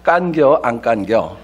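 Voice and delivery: quick, casual Chungcheong dialect; 짧고 느긋한 충청도 사투리. Shown as a demonstration. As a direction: toss it off in a relaxed Chungcheong dialect. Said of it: "충청도는 아주 간단합니다".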